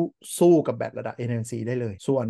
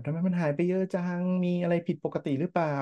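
mock complaint; 5 semitones higher, 3 dB quieter than usual. Host imitating Tesla owners asking about lost range, mock complaining. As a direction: imitate puzzled owners grumbling. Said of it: "ก็โวยวายอยู่เหมือนกัน ว่าแบบ".

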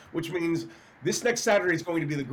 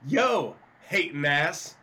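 sassy clapback; slower than usual. Retold or imitated. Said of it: "roll out of bed and say".

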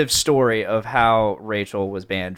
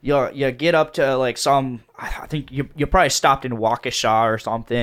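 put-on Wisconsin accent. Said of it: "in a Wisconsin accent".

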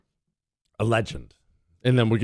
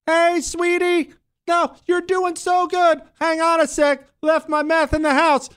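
much higher, slow, sing-song dad; goofy high dad voice. Pretend. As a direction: coo it like a cheesy dad. Imagined father voiced for laughs.

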